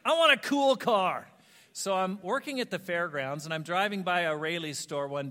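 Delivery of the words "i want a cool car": hushed scoff then loud burst; mock teenager protesting his dad; teen scoffing. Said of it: "I'm like".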